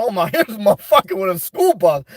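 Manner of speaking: chuckling through a put-on voice; amused jab at a bus driver; laughing mock remark. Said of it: "I say".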